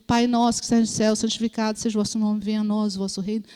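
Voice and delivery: quick, mechanical Our Father; hurried recitation, mildly mocking; rote prayer. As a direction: imitate someone rattling off a memorized prayer. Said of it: "quantidade de gente que vira pra mim e fala assim".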